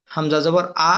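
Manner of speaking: light, thin "আ"; thin hamza. Shown as a demonstration. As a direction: say "আ" thinly, without throat pressure. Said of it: "হামজা পাতলা". (পাতলা হামজার "আ")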